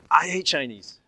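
loud, high angry yell; retold furious shout; berserk outburst. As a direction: explode at the question. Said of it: "he went berserk".

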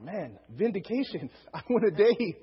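slow, laughing mock triumph; gleeful relief. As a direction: savour a lucky escape through chuckles. Gleefully recalling escaping a beating.

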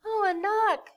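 high, loud, happy cry of welcome; mom's delighted greeting. Retold or imitated. Mom greets her child at the airport, delighted. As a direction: greet her with a big high-pitched burst. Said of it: "my mom is like".

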